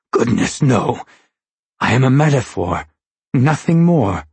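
a hint of a formal, servile captive; lightly voiced Longface. A narrator's reading. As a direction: earnestly protest like a humble underling.

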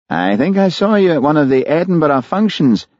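lightly voiced eager superior; ingratiating and keen; Davitt, fawning superintendent. A narrator's reading.

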